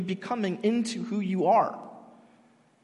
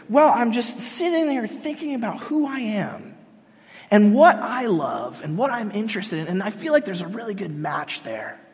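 earnest student; 3 semitones higher than usual. Retold or imitated. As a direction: stretch it out as if musing on yourself. Mocking soul-searching philosophy student.

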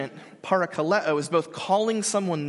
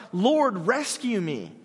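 mild retold shout; 4 semitones higher, much slower than usual. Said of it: "he shouts".

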